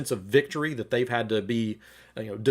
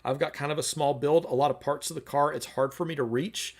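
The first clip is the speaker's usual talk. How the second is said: gentle wife; 3 semitones higher than usual. Retold or imitated. Wife gently answers her husband's insult, lightly voiced. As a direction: gently ask for a hand. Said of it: "responds actually kind of gently".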